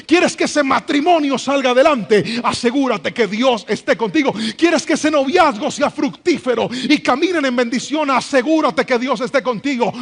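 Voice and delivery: loud, rising call-and-refrain; preaching at full force. Acted. Pastor urging the congregation to keep God close, loud and rousing. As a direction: hammer the refrain home each time.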